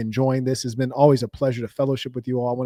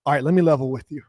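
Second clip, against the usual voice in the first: white guy impression; faster than usual. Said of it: "she would just ... put her hand on his shoulder".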